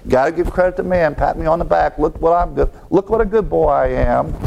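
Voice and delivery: pat-yourself-on-the-back tone, put on; mock self-congratulation. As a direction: lightly act out someone proud of himself. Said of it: "arrogance prevents them from accepting the gospel".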